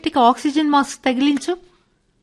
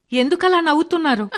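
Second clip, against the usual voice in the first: startled; 5 semitones higher, faster than usual. Acted. Startled by mocking laughter.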